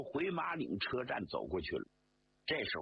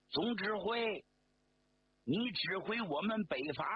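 put-on a firm, raised speech to his old commander; 5 semitones higher than usual. Regiment commander answering the general, firmly raised voice. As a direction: speak up firmly with a touch of loudness. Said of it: "周士第就大声说".

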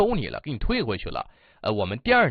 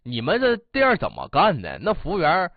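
mock brusque complaint; 3 semitones higher than usual. Rude customer complaining to the manager, mock brusque complaint. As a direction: push each complaint out, mildly heated. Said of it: "这大哥开口就挺冲的".

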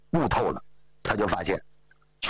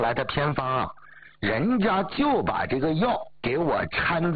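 a lightly voiced old woman bragging, a bit higher; proud granny showing off her daughter-in-law; lightly raised, boastful old lady; boastful old mother-in-law; 5 semitones higher than usual.

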